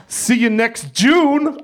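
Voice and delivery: slow taunt. Acted. Mock farewell.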